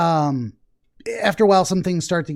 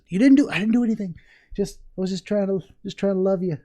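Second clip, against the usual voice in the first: voicing the cat; 3 semitones higher than usual. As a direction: play the skittish cat protesting it did nothing. Voicing the scared cat's protest.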